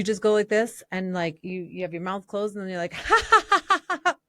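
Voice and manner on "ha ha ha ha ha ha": high, loud forced ha ha ha; demo laughter bursts. Shown as a demonstration. Showing the zipper-mouth laughter exercise to the host, high loud ha ha ha. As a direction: burst out with a big fake laugh. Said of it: "I guess I'll do it".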